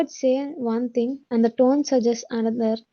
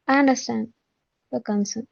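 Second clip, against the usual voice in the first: indifferent, falling away at the end; flat tone; much slower than usual. Shown as a demonstration. Teacher showing students how indifference sounds, flat tone. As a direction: say it flatly, in two detached pieces.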